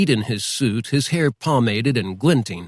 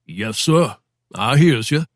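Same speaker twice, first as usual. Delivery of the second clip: talking-to-the-man voice. Acted. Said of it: "in his talking-to-the-man voice".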